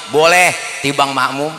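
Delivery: low, soft-edged dismissive yes; casual permission. Acted. Preacher answers whether a drunk may follow, casual permission.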